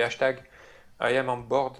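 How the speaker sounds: English with a French accent; thick-tongued French-accented English. Real, not acted. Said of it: "avec mon super accent français".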